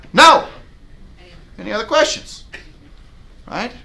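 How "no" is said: sharp high shouted refusal; firm loud no. Shown as a demonstration. Agent refusing to cut commission, a loud firm no. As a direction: slam the door with one word. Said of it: "it says".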